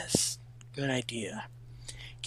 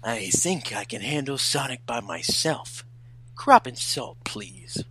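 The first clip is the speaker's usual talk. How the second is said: cooler second take of the prince; prince voice, retake. Acted. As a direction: say it again, more composed.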